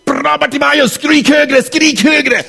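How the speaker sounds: high cheering crowd voice; mock cheering crowd. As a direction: egg him on, high and bright. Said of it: "de sa inte".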